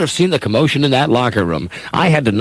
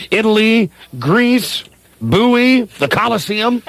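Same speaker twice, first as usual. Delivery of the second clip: excited; 7 semitones higher, slower than usual. Acted. Dreams of travel.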